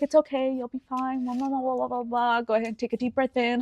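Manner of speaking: softly imitating a soothing mother; calming reassurance. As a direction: coach breathing quietly, rattling through comfort. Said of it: "she was giving me breathing techniques".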